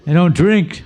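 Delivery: high, loud insistence; retold worried thought. Retold nervous thought, continued.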